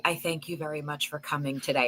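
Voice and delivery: suddenly civil. Acted. Warrior dismissing somebody he is eliminating, in mock calm courtesy. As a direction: drop the yelling for a courteous send-off. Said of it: "he would yell at them like the Warrior".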